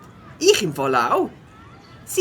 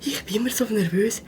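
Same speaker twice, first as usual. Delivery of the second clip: sleepy whisper to the classmate; tired whisper to his neighbour in class; 3 semitones higher, 4 dB quieter than usual. Acted. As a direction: keep it secret from the teacher. Whispering back during lesson.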